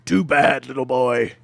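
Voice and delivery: loud, teasing put-down. Acted. Baker teasing Titus, loud and playful. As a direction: tease him like a little kid. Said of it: "She goes".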